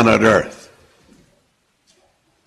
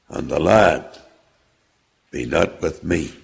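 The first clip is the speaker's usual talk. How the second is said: solemn scripture reading. Acted. Judah pleading, read aloud.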